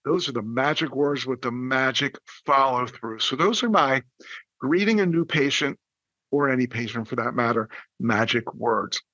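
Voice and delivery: usual speaking voice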